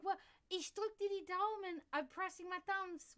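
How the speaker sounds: high, loud, eager well-wishing; imitated enthusiasm. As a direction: mimic an excited woman switching languages. Retells the lady wishing luck excitedly.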